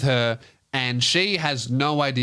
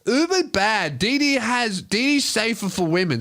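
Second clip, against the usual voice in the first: Jazz; 8 semitones higher than usual. Retold or imitated. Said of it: "she's like".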